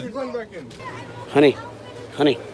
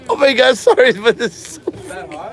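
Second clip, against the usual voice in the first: mouth burning from spicy food; 4 semitones higher than usual. Real, not acted. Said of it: "how hot this shit is".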